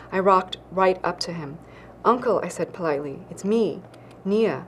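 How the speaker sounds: measured, even reading of a novel passage; story narration. Acted. Author reading her novel to radio listeners, steady narration. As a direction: read it like an author sharing her book aloud.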